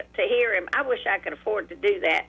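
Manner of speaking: ordinary delivery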